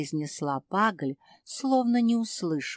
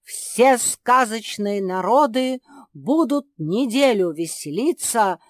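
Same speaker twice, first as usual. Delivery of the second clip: herald's proclamation; 4 semitones higher, 8 dB louder than usual. A narrator's reading. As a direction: proclaim it to the whole kingdom. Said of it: "Затем Герольд закричал громким голосом".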